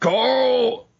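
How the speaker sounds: high-pitched put-on yell.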